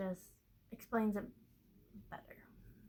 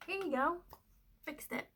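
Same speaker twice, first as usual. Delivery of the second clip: chirpy; 7 semitones higher than usual. Retold or imitated. Handing boss the fixed chart.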